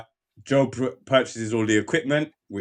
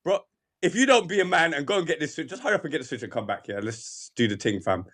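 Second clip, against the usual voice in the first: quick, soft, offhand mock order; casual; 3 semitones higher, 4 dB quieter than usual. Father sending his son for the switch, mock casual. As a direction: hurry through it casually, under-projected. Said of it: "he says it so casually".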